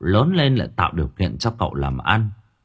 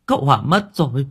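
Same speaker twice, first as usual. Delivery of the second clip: tearful cry; 6 semitones higher, faster than usual. Acted. Mother tells her child the uncle died, voice breaking. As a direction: let the grief break through on the repeat. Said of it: "Mẹ vẫn ẩn ẩn nước mắt nghẹn ngào".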